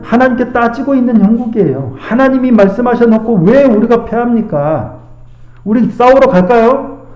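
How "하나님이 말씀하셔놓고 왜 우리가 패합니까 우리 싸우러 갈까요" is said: mildly demanding, pressing question; lightly acted protest, questioning; challenging God. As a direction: ask it as if taking God to task. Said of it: "따지듯 묻는 거예요".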